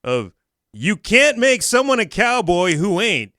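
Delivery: dramatic reading. Acted. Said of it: "a dramatic reading here".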